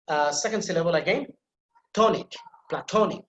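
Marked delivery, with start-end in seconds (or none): 1.9-3.2 "tonic" and "platonic" with TO emphasized; stress on TO. Shown as a demonstration. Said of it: "ta sound is emphasized".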